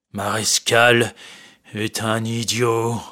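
slow, halting reading; slow reading aloud. Acted. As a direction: read out the insult slowly. Marescal reads insulting note.

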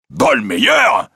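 startled cry leaping up in pitch; astonished exclamation. A narrator's reading. President hears Larsan's true name, astonished exclamation. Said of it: "s'écria le président".

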